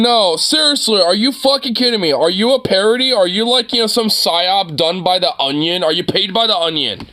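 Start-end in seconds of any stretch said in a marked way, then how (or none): 0.0-5.0 higher, louder, disbelieving outburst on "are you fucking kidding me"; incredulous rant. Real, not acted. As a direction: hit "fucking" hard in disbelief. Ranting at the clip.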